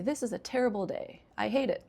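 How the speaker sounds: openly negative, said straight out; a touch of blunt complaint; directly negative. Shown as a demonstration. Teacher showing what she avoids saying, directly negative. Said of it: "directly negative".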